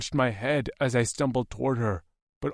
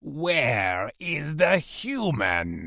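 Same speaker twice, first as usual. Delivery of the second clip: shouted demand; 4 semitones higher, much slower than usual. Acted. Captor demanding the human's location, slow shout. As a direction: bark the question at him.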